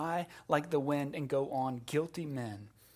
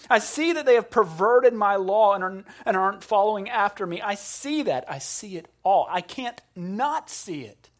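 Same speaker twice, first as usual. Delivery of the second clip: voicing God; 4 semitones higher, 6 dB louder than usual. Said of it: "God's saying".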